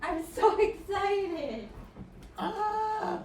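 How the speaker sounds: high, gushing praise for the dog; talking to a dog. Real, not acted. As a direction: coo at the dog. Praising the dog's collar.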